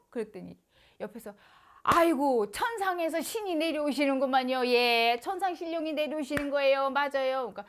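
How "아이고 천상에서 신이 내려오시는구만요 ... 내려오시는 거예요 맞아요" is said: loud, fast, eager agreement; eager affirming. Retold or imitated. The elder shaman beside him eagerly confirms the spirit, loud and fast. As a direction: hurry to confirm it is a heavenly spirit.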